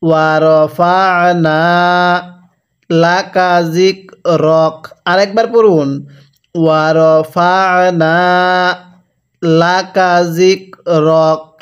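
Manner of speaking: stretched syllables, measured Arabic reading; slow recitation. Shown as a demonstration. Teacher models the word slowly for learners to copy. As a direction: draw out ওয়া র ফা না evenly. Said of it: "আমার সাথে পড়ুন।".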